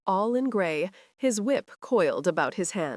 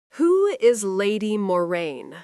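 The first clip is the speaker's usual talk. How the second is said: lightly voiced mistress, drawn out and a bit louder; Glenda's sly question; 5 dB louder than usual. Glenda asks Sir Roger about his mother, feigning innocence. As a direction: play the innocent mistress, slowly.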